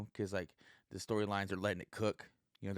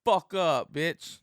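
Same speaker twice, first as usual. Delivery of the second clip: sudden higher, louder fake snap; mock angry outburst; 8 semitones higher, 9 dB louder, slower than usual. Vlogger mock-yelling at a woman quoted in the news article, hammed-up anger. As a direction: bark it at her as a joke, hammed-up. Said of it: "No, joking".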